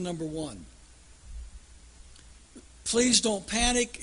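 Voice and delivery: a hint of a pilot on the intercom; calm the passengers lightly; light mock captain reassurance; captain's announcement. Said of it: "he says to the passengers".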